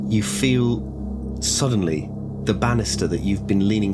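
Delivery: suspenseful pauses before each event; deliberate scene-setting, dropping words one by one; game master narration. A narrator's reading. Game master describes the banister breaking, suspenseful narration.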